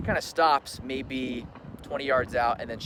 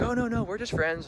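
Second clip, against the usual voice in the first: mock breezy denial; 10 semitones higher than usual. Mimicking fiancée's denial.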